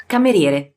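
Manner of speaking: Cameriere, Italian r rolled, four syllables ka-me-rie-re; Italian pronunciation. Shown as a demonstration. Teacher modelling Cameriere for learners, careful Italian. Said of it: "So let's start".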